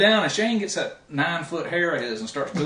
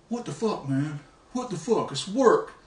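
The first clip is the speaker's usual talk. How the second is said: mock protest; 2 semitones higher, slower than usual. Retelling the opponent's complaint to Shane.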